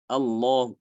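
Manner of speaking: Allah with a barely audible u trailing; just a ghost of u after Allah; faint vowel. Shown as a demonstration. Teacher asking if the faint vowel is heard. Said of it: "Kedengaran tidak?".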